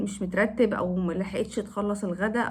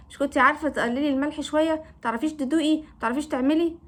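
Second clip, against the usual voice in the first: disgusted husband; 3 semitones higher than usual. Retold or imitated. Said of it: "باصص لي بقرف كده يقول لي".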